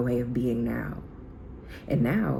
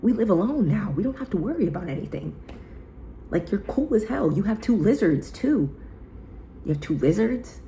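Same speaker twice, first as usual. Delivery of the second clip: high, eager pep talk; hyped reassurance; 8 semitones higher than usual. Retold or imitated. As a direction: cheer her up like a buddy. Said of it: "I'm like".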